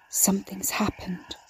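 slow, hushed whisper; eerie whisper. A narrator's reading. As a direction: whisper it slowly, almost without voice. Narrated thought, eerie unvoiced line.

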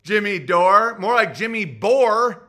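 loud, jeering cop voice; mocking cop. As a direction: taunt him like a smug cop. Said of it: "the cop's gonna go".

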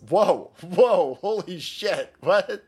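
high, shrill-free squealing mock of a flustered leftist. Commentator mocking leftist posters with a high squeal. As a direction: ham up a panicked, whiny leftist denial. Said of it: "they all talk like this".

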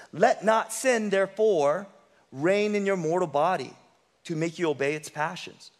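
slow, weighty reading of the verse; sermon verse read with weight; slow scripture reading. Shown as a demonstration. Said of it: "Look at what Paul says".

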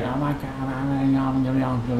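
lightly voiced white girl babbling; mock white girl. Mimicking a woman yelling into FaceTime, mock white girl. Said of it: "like a fucking white girl".

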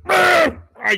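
high, loud burst of laughter; shrieking laugh. Real, not acted. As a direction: laugh out in disbelief.

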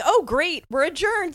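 high, loud mock-judge pronouncement; retold judge. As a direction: imitate a judge declaring court over. Retold judge abruptly ending court.

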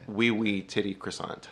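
put-on French accent; a quick mock-French accent. Shown as a demonstration. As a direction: do your best playful French. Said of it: "give us our best French accent".

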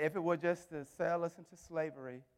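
low, hushed words with long pauses; halting, very soft appeal to the king; quiet plea. Acted. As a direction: let each word fall softly, with gaps. Esther pleading with the king.

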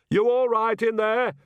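loud, high call through a wall; calling from another room. Acted. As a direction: shout it from the next room. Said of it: "Nanny called from the next room".

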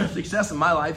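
coughing through the words; coughing fit. Real, not acted. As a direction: voice catching on a cough. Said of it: "I'm coughing".

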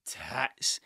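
breathy whispered "tits"; whispered aside about the teacher losing it; whispered punchline. Retold or imitated. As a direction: drop to a whisper for the word. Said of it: "the teacher, went".

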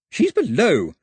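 high, loud shout; shouting over wind. A narrator's reading. Gentleman outside shouting above the roar of the wind. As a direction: make it carry over a roaring wind. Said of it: "shouted above the roar of the wind".

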